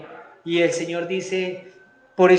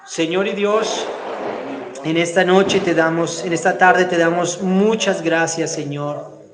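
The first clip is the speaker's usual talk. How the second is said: fervent prayer. Real, not acted. Pastor praying aloud for the standing congregation, fervent pleading. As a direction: pray aloud for the whole church, pleading.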